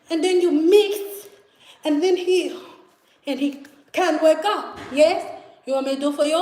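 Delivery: put-on measured Haitian-accented explaining; imitated Haitian accent. Roommate offers storyteller her trick, imitated Haitian accent. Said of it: "these Haitian roommates".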